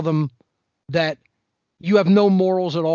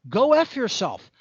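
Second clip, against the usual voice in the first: imagined defiant retort. Pretend. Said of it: "I would be like".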